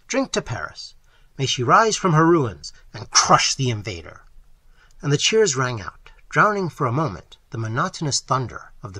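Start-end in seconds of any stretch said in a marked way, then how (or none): 0.1-4.2 loud, rousing toast; cried toast. Acted. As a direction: raise the glass and call it out. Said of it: "Trent cried".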